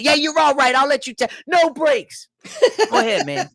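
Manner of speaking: high put-on inmate, half laughing. Inmate getting swabbed still ranting, high laughing voice. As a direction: play the inmate brushing off the nurse. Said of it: "I'm like".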